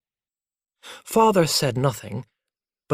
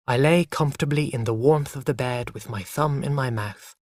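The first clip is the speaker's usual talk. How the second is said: ordinary delivery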